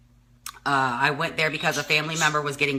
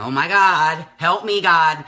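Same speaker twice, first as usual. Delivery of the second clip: retold dismayed plea; 2 semitones higher, 6 dB louder, slower than usual. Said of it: "imagine my thought process right then".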